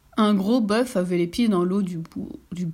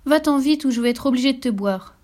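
choked voice; 5 semitones higher, 3 dB louder than usual. Acted. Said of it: "d'une voix étranglée".

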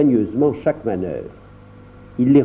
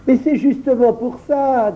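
high-pitched, amused retort; amused, laughing reply; 10 semitones higher than usual. A narrator's reading. John answering Aylan's objection, amused and laughing. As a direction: say it lightly, as if laughing. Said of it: "dit John en riant".

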